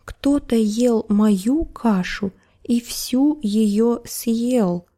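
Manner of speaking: slow, hushed little bear, mock tearful; crying bear cub. Bear cub finds his porridge gone, mock crying. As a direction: whimper it like a small cub. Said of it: "заплакал медвежонок".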